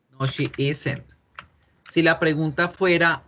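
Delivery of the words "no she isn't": slow model answer. Shown as a demonstration. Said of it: "modelled answer said slowly".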